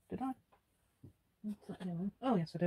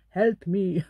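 whisper; 5 dB louder than usual. Pretend. Playful plea after asking help.

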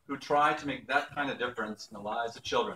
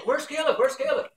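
high, louder peekaboo sing-out; playful grandpa; 13 semitones higher, 4 dB louder than usual. Retold or imitated. Grandpa playing peekaboo with his grandson, high playful mock wondering. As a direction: pretend to search for a toddler.

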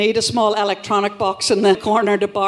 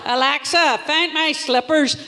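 imitating a man ordering Alexa about, slowly; mock domestic command; man barking orders; 3 semitones higher, slower than usual. Comic mimics men ordering Alexa about, mock bossy. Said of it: "men and boys barking orders".

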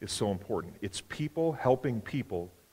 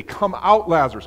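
higher, much louder call into the cave; commanding shout; 6 semitones higher, 9 dB louder than usual. Retold or imitated. Jesus calling dead Lazarus out of the tomb, loud commanding shout. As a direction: shout him out of the grave.

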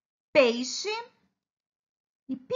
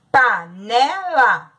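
Panela said slowly, every syllable pa-ne-la drawn out; slow clear word; 5 dB louder, much slower than usual. Shown as a demonstration. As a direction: spell out Panela slowly for the children. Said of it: "escrita de três formas".

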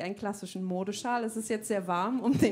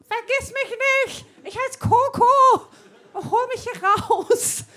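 flehender Zooaffe; 11 semitones higher, 10 dB louder, slower than usual. Retold or imitated. Zoo-Affe Coco spricht.

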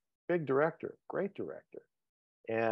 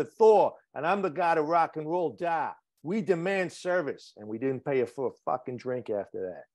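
put-on Boston accent; Cambridge, Massachusetts local in a Boston accent. Auditioning for Millie's father from Cambridge, in a Boston accent. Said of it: "his Boston fucking accent".

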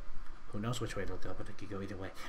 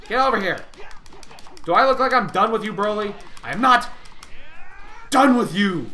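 loud, fast hammed-up challenge; taunting yell; 4 semitones higher, 4 dB louder than usual. Gamer shouts a hammed-up challenge at the boss. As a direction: shout it at the boss like an anime hero.

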